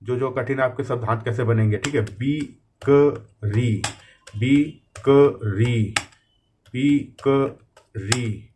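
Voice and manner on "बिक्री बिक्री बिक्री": बिक्री stretched out very slowly, syllable by syllable; very slow dictation. Shown as a demonstration. Teacher dictating a hard word for typists, very slowly. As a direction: draw बिक्री out slowly for learners. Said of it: "ध्यान से देखिएगा एक एक शब्द कैसे आप type कर रहे हैं".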